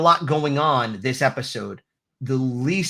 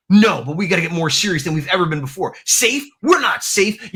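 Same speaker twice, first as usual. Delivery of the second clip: imagined rallying speech; 4 semitones higher, 3 dB louder than usual. Retold or imitated. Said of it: "to him being like".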